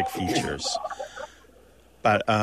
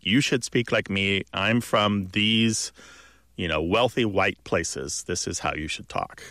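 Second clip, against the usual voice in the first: lower, slower voice of a prescriptive authority; prescriptive textbook author; 3 semitones lower than usual. Retold or imitated. Textbook writers telling the country how to talk, lightly imitated authority. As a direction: lay down the rule, slowing and dropping low. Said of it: "that's the way that they said".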